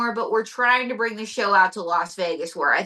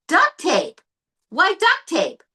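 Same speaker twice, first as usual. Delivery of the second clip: higher, louder incredulous "Duct tape?"; mock surprise; 8 semitones higher, 3 dB louder, slower than usual. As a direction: act shocked at the gift. Interviewer reacts to joke.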